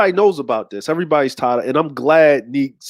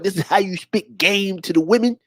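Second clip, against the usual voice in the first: mock game guru; 3 semitones higher than usual. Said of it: "talking about".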